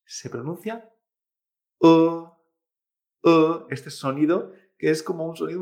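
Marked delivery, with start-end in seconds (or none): 1.8-1.9 "E" as a held, indistinct vowel in place of i; strange E. Shown as a demonstration. Teacher shows what replaces the I, strange "E". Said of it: "una E extraña". 3.2-3.6 "E" as a held, indistinct vowel in place of i; strange E. Shown as a demonstration. Teacher shows what replaces the I, strange "E". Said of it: "una E extraña".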